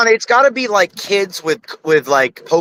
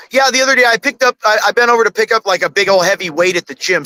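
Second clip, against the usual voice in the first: casual example; 2 semitones higher, faster than usual. Pretend. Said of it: "if I go".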